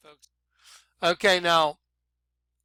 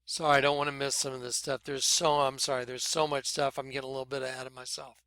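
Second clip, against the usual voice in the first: fast, tumbling rush of words; hurried excited babble; rushing ahead; 3 semitones lower, 7 dB quieter, faster than usual. Real, not acted. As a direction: spill it out too quickly, half under breath. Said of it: "Let me slow down".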